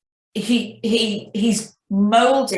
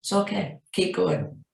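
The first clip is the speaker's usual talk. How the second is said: gentle reassurance; 3 dB quieter than usual. Retold or imitated. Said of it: "He's just gently".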